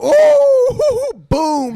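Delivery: ooh, shot up high and loud; sudden high hype ooh; excited ooh. Real, not acted. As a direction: whoop it up like a hype man. Hyping a point.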